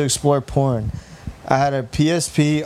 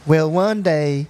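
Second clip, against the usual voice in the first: put-on farm girl voice; slower than usual. Shown as a demonstration. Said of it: "you gotta read it like a farm girl now".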